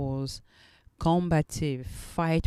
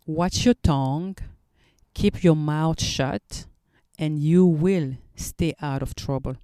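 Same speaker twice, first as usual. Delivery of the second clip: reciting scripture; 5 dB louder than usual. Shown as a demonstration. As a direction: recite the proverb firmly from memory. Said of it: "remember how I memorize it".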